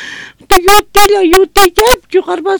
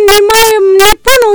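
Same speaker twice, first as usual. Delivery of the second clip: crying; 2 semitones higher, faster than usual. Real, not acted. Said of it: "mamita está llorando".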